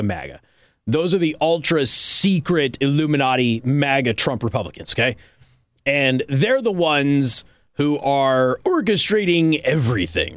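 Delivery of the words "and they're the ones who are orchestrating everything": mock conspiratorial. Conspiratorial reveal.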